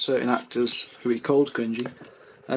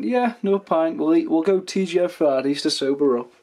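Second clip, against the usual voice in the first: acted-out drunken plan; 5 semitones higher, 5 dB louder than usual.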